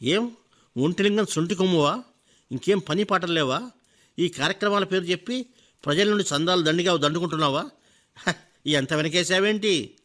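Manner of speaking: mocking, sneering questions; sarcastic. Rich man mocks the teacher's language work, sarcastic. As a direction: needle him with scorn. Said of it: "వ్యంగ్యంగా అడిగాడు".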